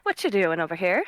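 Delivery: playful, needling question; teasing. Acted. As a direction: tease a stranger lightly. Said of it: "very teasing manner".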